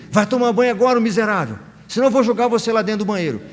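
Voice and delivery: loud mock yell, fast at the end; a fed-up father finally bellowing the order; father's yell. Father shouting at his son to bathe, a loud mock yell. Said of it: "e grita pro menino".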